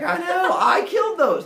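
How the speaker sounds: high, loud excited hero; oblivious loud boast. Acted. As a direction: shout proudly over the screaming. Hero boasts over villagers' screams.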